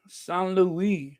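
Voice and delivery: San Luis with French vowels, "sahn loo-EE"; French-style pronunciation of San Luis; French accent. Shown as a demonstration. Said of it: "French accent".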